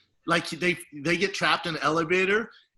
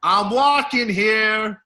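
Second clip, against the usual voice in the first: loud, high, drawn-out New York catchphrase; big stretched-out holler; Uncle Vinny's catchphrase; 5 semitones higher, 8 dB louder, much slower than usual. Acted. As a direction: belt it out like a cartoon Italian uncle. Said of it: "his whole catchphrase".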